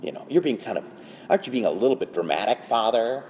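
low, lightly voiced sceptical objection; dismissive worldly critic. The world chiding Father for drama, lightly dismissive. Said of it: "The world says".

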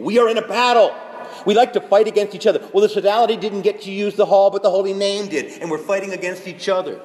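loud, high rallying rebuke; urgent exhortation. Acted. Priest telling his people they are in a battle, urgently. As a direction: cry it out to rouse the congregation.

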